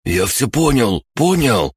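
high, frantic assurance; panicky. A narrator's reading. Threatened captive Шор gives in, panicky. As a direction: squirm and give in, voice climbing. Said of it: "задёргался Шор".

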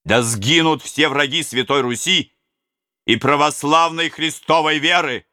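high, loud fervent curse on the enemy; fervent cry. Acted. Robbers to the prince, high loud fervent cry. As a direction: hurl it out as a vow.

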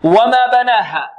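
slow "وما بناها", every letter thin; all letters light. Shown as a demonstration. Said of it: "كلها مرققة".

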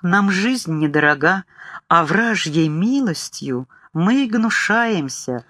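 put-on slow, chanted like old scripture; solemn lilting recitation; sing-song recital. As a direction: intone as if reading an old book. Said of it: "сказал как-то нараспев, словно читал по старой книге".

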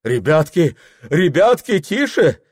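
high, loud placating call; officer calming crowd. Acted. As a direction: settle the crowd down.

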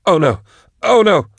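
high-pitched panicked cries, rising; horrified cry. A narrator's reading. Drusha grabbed by the corpse, horrified cry. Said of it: "Drusha screamed and would have leapt back".

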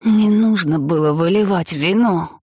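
медленный раздражённый рык; прорычи упрёк мужу, растягивая слова; рычание. A narrator's reading. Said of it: "рыкнула Джен". (сердитый рык)

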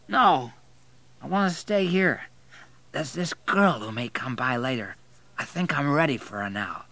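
tipsy refusal, starting high; drunken man. A narrator's reading. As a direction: dig in stubbornly as a drunk. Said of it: "He was so drunk".

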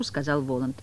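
usual speaking voice

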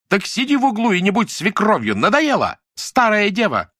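high, loud spiteful yelling; shouted insult. A narrator's reading. Lyuda insults Nadya in the quarrel, spiteful shouting. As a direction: fling the insults at her.

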